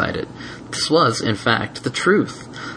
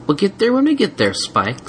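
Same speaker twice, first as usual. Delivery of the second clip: sighing; 11 semitones higher than usual. A narrator's reading. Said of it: "sighed Twilight".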